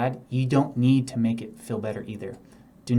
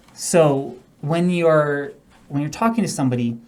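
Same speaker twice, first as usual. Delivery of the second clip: monotone; 3 semitones higher, 4 dB louder than usual. Shown as a demonstration. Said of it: "now I'm showing you a very monotonal process".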